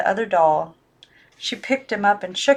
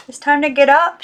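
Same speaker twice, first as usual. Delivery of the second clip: put-on young girl, high and louder, urging; 7 semitones higher, 8 dB louder than usual. Girl urges her silent dolls, high and insistent. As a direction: coax the dolls to get up. Maggie voiced.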